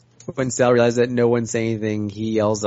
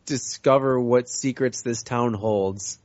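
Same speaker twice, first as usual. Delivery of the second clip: yelling up; 3 dB quieter, slower than usual. Acted. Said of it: "yell up".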